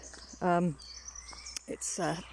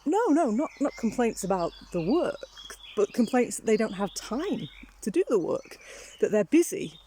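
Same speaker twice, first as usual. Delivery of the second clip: lightly voiced Toby; 2 semitones higher than usual. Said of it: "He says".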